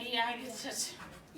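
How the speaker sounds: "E, I, G, T" slowly sounded out one letter at a time; weird letter-by-letter pronunciation. Shown as a demonstration. Teacher mispronouncing on purpose for students, "E, I, G, T" slowly letter by letter. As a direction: give each of "E, I, G, T" a separate sound. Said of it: "like every letter has to have a sound".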